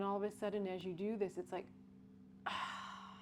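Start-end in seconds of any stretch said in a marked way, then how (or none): 2.5-3.2 soft unvoiced "ah" that sinks and falls away; sigh with a drop. Shown as a demonstration. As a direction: let the sigh drop past the diaphragm. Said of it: "and there's a drop".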